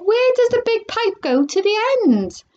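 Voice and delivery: high, frantic question; very high-pitched alarm; shrieked. A narrator's reading. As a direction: demand it like a panicking mother. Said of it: "shrieked Missus Salt".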